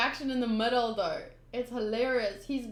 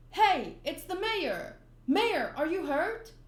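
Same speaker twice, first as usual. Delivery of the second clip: higher-pitched, drawn-out alarm; alarmed concern; 4 semitones higher, slower than usual. Acted. Townspeople finding their hurt mayor, alarmed. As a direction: call out with mild alarm.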